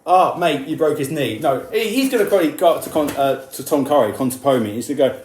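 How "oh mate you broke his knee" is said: mock friendly, easygoing; a light, casual mock mate; mild gentle mate. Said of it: "he's not just gonna say".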